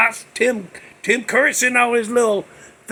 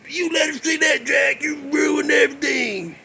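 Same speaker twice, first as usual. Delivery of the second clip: mock angry yell; 5 semitones higher than usual. Angry elf scolds the hero.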